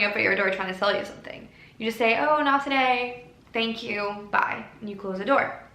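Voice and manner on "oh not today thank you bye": polite brush-off. Pretend. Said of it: "gently closing the door on that voice".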